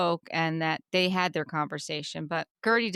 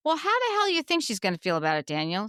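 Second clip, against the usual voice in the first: indignant; 2 semitones higher, faster than usual. Acted. Indignant rhetorical question at Daniel.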